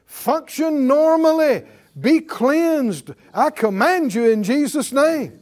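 loud, high preaching command; commanding prayer. Acted. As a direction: command the organs with full force.

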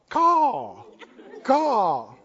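mock crow call, squawked out; raven caw. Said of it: "outside the house cawing".

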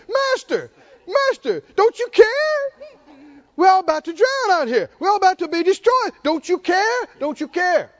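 high, loud, frantic pleading; panicked disciples. Acted. Disciples waking Jesus in the storm, frantic high plea. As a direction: cry out like men about to drown. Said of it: "They come back and they shook it".

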